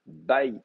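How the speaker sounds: Bait as BA-yit, weight on BA; accent on first syllable. Shown as a demonstration. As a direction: stress the start of Bait, keep yit light. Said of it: "Et l'accent reste là".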